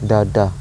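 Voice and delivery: "da, da" with no stress on either; "da, da" even and unaccented; pyrrhic, unstressed. Shown as a demonstration. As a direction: say "da, da" as two weak beats. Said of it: "Like, it's so boring".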